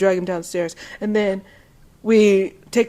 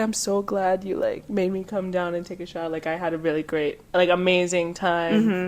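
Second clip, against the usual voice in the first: soft, heartfelt confession; sincere thanks; 2 semitones lower, 7 dB quieter than usual. Acted. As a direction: play a shy guy quietly grateful after a party. Voices roommate's sincere end-of-night thanks.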